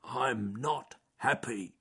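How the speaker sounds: slow, miserable bear groan; fed-up bear, drawn out. A narrator's reading. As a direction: groan it out slowly, feeling sorry for yourself. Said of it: "he groaned".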